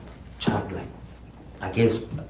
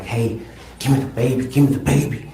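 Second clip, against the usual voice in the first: urgent demand; 3 semitones higher, 6 dB louder than usual. Retold or imitated. To Selena over the baby, rising urgent demand. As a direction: build the demand up.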